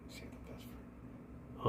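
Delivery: hushed, drawn-out whisper; slow, barely audible whisper. Acted. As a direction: whisper it very slowly. Falters before last word of story.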